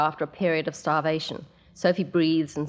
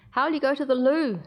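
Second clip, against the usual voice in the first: put-on high, louder child crowing; triumphant shrill child; 9 semitones higher, 3 dB louder than usual. Six-year-old taunts her mother from behind the door, triumphant and shrill. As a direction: crow it like a little girl who's won. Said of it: "Mindy shrills, triumphant".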